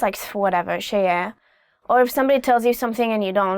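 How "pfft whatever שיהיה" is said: dismissive. Shown as a demonstration. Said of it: "you can say to your parents".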